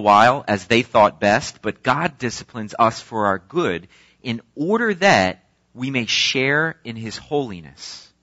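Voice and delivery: measured, earnest Bible reading; scripture reading. Acted. Pastor reading Hebrews aloud to church, earnest. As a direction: read the passage to the congregation.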